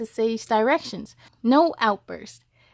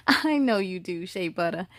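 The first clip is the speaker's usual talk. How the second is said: warm mother; 5 semitones lower, 3 dB quieter than usual. Acted. Mother answering warmly.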